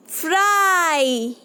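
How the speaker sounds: फ्राई slow with a long ai; slow demo word. Shown as a demonstration. Teacher sounds out a picture word for children, slow. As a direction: draw फ्राई out for the class. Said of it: "सुना children मैं क्या बोल रही हूँ".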